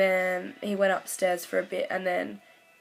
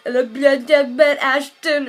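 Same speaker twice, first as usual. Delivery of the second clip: sobbing loud, words breaking up; crying garble; 7 semitones higher, 12 dB louder than usual. Retold or imitated. Calling her friend after meeting Ashton, sobbing loudly. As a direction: wail it out through tears, barely words. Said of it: "I couldn't even talk English".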